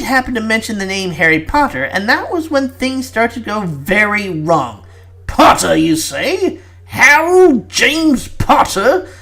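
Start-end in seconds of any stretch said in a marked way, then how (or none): 5.3-9.1 slow disbelieving query, rising high; incredulous. Acted. Prime Minister hearing Harry Potter's name, slow incredulous rise.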